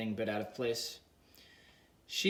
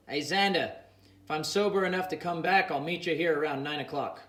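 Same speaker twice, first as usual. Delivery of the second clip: slurred yell; 4 semitones higher, 4 dB louder than usual. Acted. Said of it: "a slurry voice yelled out".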